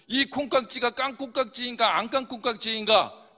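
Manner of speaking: loud, careful tongue-twister demo; standard Korean tongue twister. Shown as a demonstration. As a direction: recite it in full standard Korean. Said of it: "표준어로".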